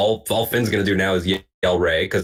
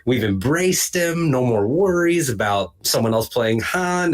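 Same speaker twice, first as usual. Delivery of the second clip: drawn-out, naively confident gush; retold naive optimism, stretched out; mock relief; 4 semitones higher than usual. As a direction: act out blissful relief, swooping high on key words. Acts out his naive relieved thoughts.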